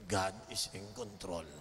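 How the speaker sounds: low, very slow declaration; preacher stating faith, slowly; slow solemn declaration. Acted. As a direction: lay each word down slowly.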